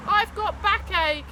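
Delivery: lightly voiced dad moaning; Dad's excuse. A narrator's reading. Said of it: "is his usual excuse".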